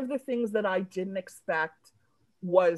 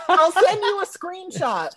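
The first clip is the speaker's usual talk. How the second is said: giddy laughing; 10 semitones higher, 6 dB louder than usual. Real, not acted. Giddy laughter over text.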